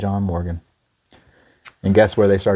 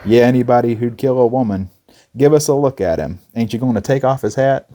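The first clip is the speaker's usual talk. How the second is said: louder, raised mock heckle; crowd heckling; 3 semitones higher, 5 dB louder than usual. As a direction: jeer from the crowd.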